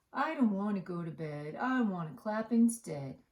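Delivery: stubborn toad who won't sleep; grumpy whiny toad. Acted. Grumpy Toad refuses bed.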